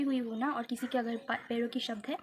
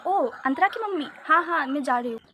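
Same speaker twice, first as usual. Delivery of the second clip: eager teacher; 3 semitones higher, 6 dB louder than usual. Retold or imitated. Teacher greeting mother, retold.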